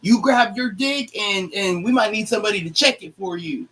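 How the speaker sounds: lightly mocking her suggestion; mimicking the woman.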